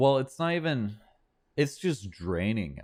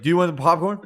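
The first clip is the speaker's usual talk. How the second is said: awkward offer; 6 semitones higher, 7 dB louder, much faster than usual. Retold or imitated. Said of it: "He was like".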